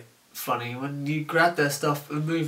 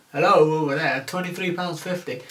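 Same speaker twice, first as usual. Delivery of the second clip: calling out; 3 semitones higher, 5 dB louder than usual. Retold or imitated. Calling to a customer at another till.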